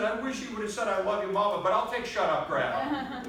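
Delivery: high, loud, excited punchline; retold delighted mother. Mother on her silent son's first words, loud excited retelling. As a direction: imitate a thrilled mom, building in volume.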